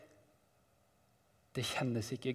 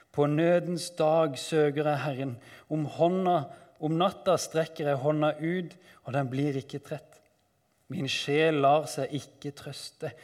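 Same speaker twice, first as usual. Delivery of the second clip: raised, urgent lament; dramatic psalm reading; 2 semitones higher, 5 dB louder than usual. Acted. Psalmist seeking God in need, urgent lament. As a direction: declaim it in distress.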